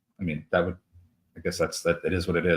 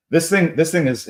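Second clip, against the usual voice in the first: laughing; 9 semitones higher, 6 dB louder than usual. Real, not acted. Laughing about a bad stock.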